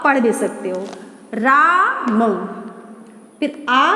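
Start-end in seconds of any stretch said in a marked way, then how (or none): 1.3-2.4 drawn-out राम, sound by sound; sounding out slowly. Shown as a demonstration. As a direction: stretch राम slowly for a beginner reader. Sounding out a word for learners.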